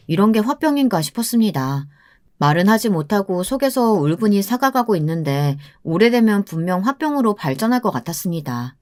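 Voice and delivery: usual speaking voice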